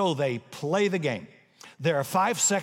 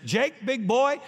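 excited coach; 7 semitones higher, slower than usual. Retold or imitated. Coach hypes Jake in huddle.

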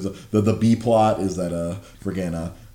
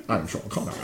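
put-on a clumsy, laughing Sean Connery Scottish accent; bad Sean Connery; 6 dB quieter than usual. Recalling a GameStop coworker's awful impression, bad Sean Connery Scottish accent. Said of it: "did the worst Sean Connery impression".

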